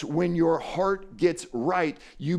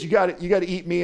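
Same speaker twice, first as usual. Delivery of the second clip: fast, pushy, higher and insistent; emphatic Jesus; 6 semitones higher, 4 dB louder, much faster than usual. Retold or imitated. Preacher voicing Jesus to the literal-minded Jews, fast and insistent. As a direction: hammer the point home quickly.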